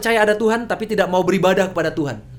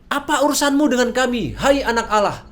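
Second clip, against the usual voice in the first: raised, louder demon outcry; demons crying out; 5 semitones higher, 4 dB louder than usual. Retold or imitated. Preacher voicing the demons crying out to Jesus, loud. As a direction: cry it out like the possessed man's demons. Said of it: "dan mereka itu berteriak".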